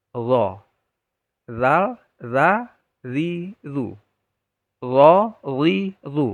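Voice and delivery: dha with tongue tip on upper teeth, heavy; correct letter demo. Shown as a demonstration. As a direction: say Zo, zi, zu thick and full. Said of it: "Yang benar". (mengucapkan zo dengan tebal dan benar)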